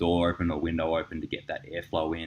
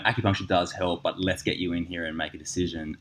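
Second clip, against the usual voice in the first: humble; 3 semitones lower, 5 dB quieter than usual. Retold or imitated. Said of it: "went from that humble".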